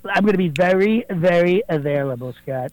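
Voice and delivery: a fairly close Donald Trump impersonation, boastful. Acted. Impersonator calling the radio show as the president, Trump voice. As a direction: do Trump bragging to the host, leaning on believe me. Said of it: "not President Donald Trump".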